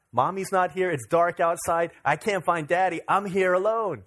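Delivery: hammed-up toddler panic without real sobs; imitated distraught child. Crying daughter who can't find Daddy, mock distraught. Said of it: "she's, like, crying".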